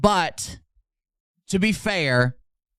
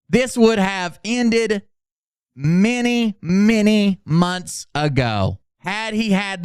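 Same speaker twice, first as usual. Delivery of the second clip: mock grandiose reading. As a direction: intone it like a war hero. Reads Phil's post grandly.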